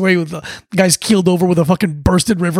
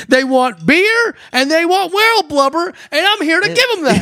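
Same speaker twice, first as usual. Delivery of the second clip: mock hero voice; 9 semitones higher than usual. Mocking the movie character.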